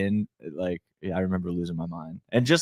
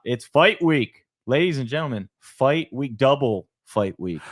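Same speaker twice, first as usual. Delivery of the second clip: hype announcer; 5 semitones higher, slower than usual. Acted. Hyping the fight week event.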